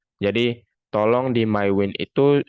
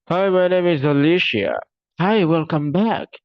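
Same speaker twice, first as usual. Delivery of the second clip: cheery app voice; 9 semitones higher, 5 dB louder than usual. Pretend. App output voiced as greeting.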